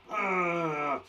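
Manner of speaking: mock angry "ugh" of frustration; angry growl. Shown as a demonstration. Teacher introducing the word angry, pretend angry growl.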